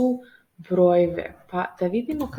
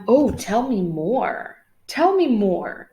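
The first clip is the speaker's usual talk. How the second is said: eager Sam; 2 semitones higher, 6 dB louder, slower than usual. Acted. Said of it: "Kaže Sam".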